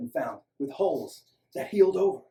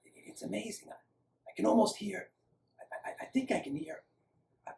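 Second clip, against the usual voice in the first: hushed, higher and halting; eerie half-whisper, dazed; hoarse, eerily quiet; 6 semitones higher, 6 dB quieter than usual. A narrator's reading. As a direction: speak softly as if dazed after an ordeal. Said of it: "Lex's voice was hoarse and eerily quiet".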